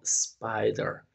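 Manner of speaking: spider drawn out slowly, spai-der with an s cluster; model word spider. Shown as a demonstration. Teacher slowly modelling spider for students. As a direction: stretch out spider so students hear the sp. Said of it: "la combinación de la P más la L".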